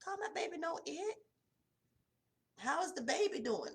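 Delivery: a playful huffy protest; indignant retort. Retold or imitated. Daughter correcting her mother on the phone, mock indignant and high. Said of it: "And I'd be like".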